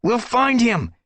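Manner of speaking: high, loud promise; shouted promise. Acted. Brambleclaw promising Squirrelpaw, shouted over the danger. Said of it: "Brambleclaw promised".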